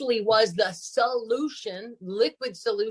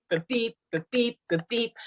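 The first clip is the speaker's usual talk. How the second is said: imitated beeping; 3 semitones higher than usual. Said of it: "my honing device goes beep".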